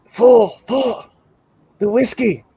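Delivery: mock whispering voice. Mysterious voice prompts the player about whiskey, mock whisper. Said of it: "you hear this guy whispering".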